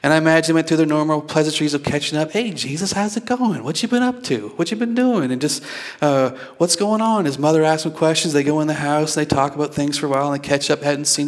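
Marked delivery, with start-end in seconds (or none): 2.3-5.3 lightly acted, higher-pitched greeting; chatty hello to someone back home; friendly catching up. Imagined pleasantries of catching up. 6.6-7.2 higher-pitched casual greeting; lightly acted hello to a returning friend; friendly catching up. Imagined pleasantries of catching up.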